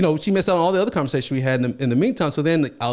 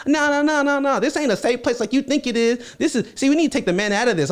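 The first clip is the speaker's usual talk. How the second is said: high woman voice; 10 semitones higher than usual. Retold or imitated. Girls' voice retold.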